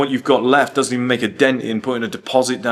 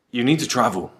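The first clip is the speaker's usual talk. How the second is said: ordinary talk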